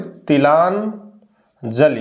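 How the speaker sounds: तिलांजलि dragged out very slowly; slow dictation. Shown as a demonstration. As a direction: stretch सिर्फ तिलांजलि for the students to write. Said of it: "इसमें सिर्फ वही लिखेंगे".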